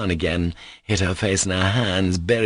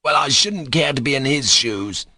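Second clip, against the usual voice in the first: hissed; 6 semitones higher, 3 dB louder than usual. A narrator's reading. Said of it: "hissed Rakitin".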